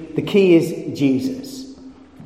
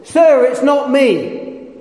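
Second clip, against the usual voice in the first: pleading schoolboy; 8 semitones higher, much slower than usual. Retold or imitated. Schoolboy answers the teacher.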